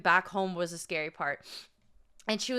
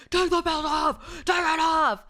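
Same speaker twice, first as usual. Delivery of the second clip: higher, louder mock shout; imitated scream; 6 semitones higher, 5 dB louder than usual. TSA guard screaming at the old man to remove belt, mock yell. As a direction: yell the order even louder. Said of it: "Screaming even louder".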